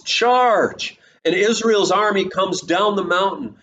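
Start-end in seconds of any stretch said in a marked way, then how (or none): 0.0-1.0 high shouted battle cry; yelled command. Retold or imitated. Deborah to the army, launching the attack: high yelled charge. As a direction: send the army down the mountain. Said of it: "Deborah yells".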